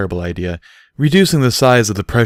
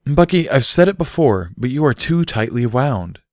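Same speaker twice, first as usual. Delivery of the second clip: scolding; 6 semitones higher than usual. Acted. Barry scolds Bucky.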